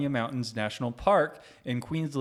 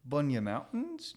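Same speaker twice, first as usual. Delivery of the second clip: bad Australian accent; 3 semitones higher than usual. Shown as a demonstration. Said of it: "that was bad".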